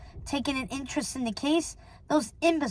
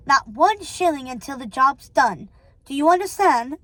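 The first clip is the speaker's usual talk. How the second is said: firm, imperious telling-off; mildly raised, emphatic ultimatum; stern refusal; 3 dB louder than usual. Acted. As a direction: lay down the law to a henchman.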